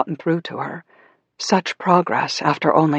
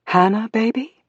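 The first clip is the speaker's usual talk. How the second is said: tender mother; 7 semitones higher than usual. A narrator's reading. Mother greets long-silent daughter.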